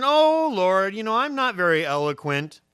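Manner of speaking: high, loud mock plea; drawn-out, hammed-up "Oh, Lord" plea; pleading Moses. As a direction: whine it up to heaven, hammed-up. Acts out Moses pleading with God.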